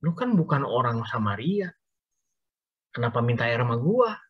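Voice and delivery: a light sneer in Betawi slang; cynical. Acted. Samaritan woman sneering at Jesus' request, mildly cynical. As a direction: sound mildly scornful of the stranger. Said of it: "dengan sinis".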